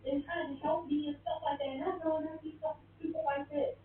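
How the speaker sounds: imitated tearful plea. Husband begging after hitting her, mock tearful plea. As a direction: act out his crying appeal lightly. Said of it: "he just started crying".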